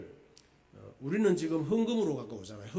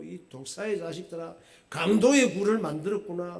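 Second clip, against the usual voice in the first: lightly voiced angry rebuke, building louder; mild mock anger; 3 semitones higher, 5 dB louder than usual. Pastor retelling Jesus rebuking the temple traders, mildly acted anger. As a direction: imitate a rebuke, pushing the second half. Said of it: "막 이렇게 화를 내셨어요".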